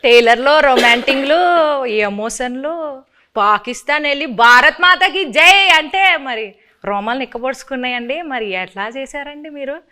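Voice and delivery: put-on Srikakulam accent, uneven bursts of volume; mock Srikakulam dialect, hammed-up delivery; Srikakulam slang. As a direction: play a gushing Srikakulam local. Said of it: "కొంచెం Srikakulam slang".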